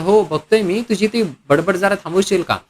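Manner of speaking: understated acted irritation; fed-up annoyance. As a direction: snap back, a touch annoyed. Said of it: "वैतागून म्हणाला".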